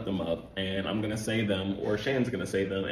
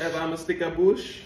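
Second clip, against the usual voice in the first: high patois lilt; pitched-up Jamaican accent; patois rerun; 5 semitones higher than usual. Shown as a demonstration. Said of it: "Run that back".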